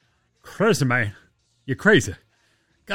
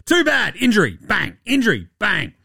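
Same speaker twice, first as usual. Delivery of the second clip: higher, gloating voice of the gods laughing at him; pitched-up taunting sing-song; mocking basketball gods; 6 semitones higher than usual. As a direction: rub it in like cackling gods. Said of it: "And they're like".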